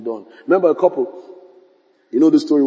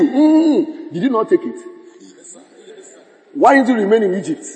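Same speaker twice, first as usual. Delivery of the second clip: mocking reminder; 4 semitones higher than usual.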